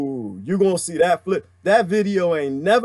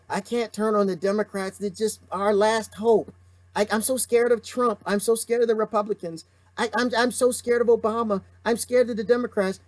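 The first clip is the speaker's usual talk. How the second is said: whimpering mock fear, stammering; mock scared voice; 3 semitones higher than usual. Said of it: "When you're scared".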